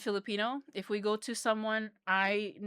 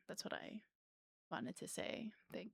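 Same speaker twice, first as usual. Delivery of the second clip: whispered aside; hushed embarrassed whisper; 21 dB quieter than usual. Real, not acted.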